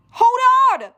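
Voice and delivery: loud warning; urgent shout. Acted. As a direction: shout a warning before impact. About to crash.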